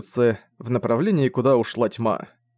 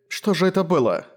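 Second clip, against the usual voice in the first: put-on higher, sweetly asking like a young girl; a lightly voiced sweet girlish question; 6 semitones higher than usual. A narrator's reading. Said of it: "милым тоном молодой девушки".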